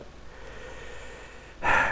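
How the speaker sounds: breathy exhausted exhale; real tired sigh; long weary sigh. Real, not acted. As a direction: sigh it all out. Giving up on recording.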